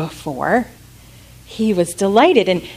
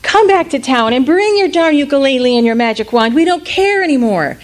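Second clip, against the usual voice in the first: welcoming townsfolk; 6 semitones higher than usual. Acted. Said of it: "and they said".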